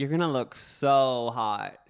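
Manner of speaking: put-on sultry adult-film voice. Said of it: "put on, like, a porn star voice".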